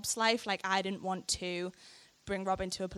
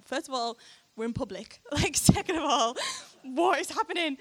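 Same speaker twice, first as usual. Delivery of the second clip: laughing disbelief; 6 semitones higher, 4 dB louder than usual. Retold or imitated. Retold shock, laughing.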